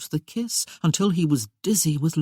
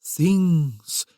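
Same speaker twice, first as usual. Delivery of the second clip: sepulchral echo; 3 dB louder than usual. Acted. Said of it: "he echoed in a sepulchral voice".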